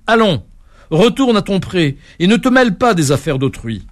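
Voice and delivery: invective. Acted. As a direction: chase the coward hare away. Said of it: "l'invectiva en ces termes".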